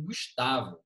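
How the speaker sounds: "Gustavo" with the middle syllable TA strongest; stronger TA. Shown as a demonstration. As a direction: stress TA in "Gustavo", ending light on vo. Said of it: "Com esse tá aí mais forte". ("Gustavo" com o TA mais forte)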